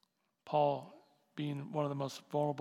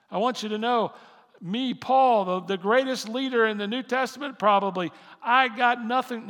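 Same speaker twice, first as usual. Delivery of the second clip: loud, high, impassioned sermon voice; full-force preaching; 6 semitones higher, 12 dB louder than usual. Acted. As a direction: preach it out, building to a roar.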